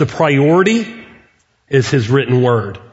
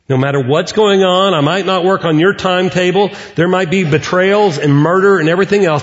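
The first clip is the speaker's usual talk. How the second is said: God's voice; 5 semitones higher than usual. Acted. Preacher voices God's promise.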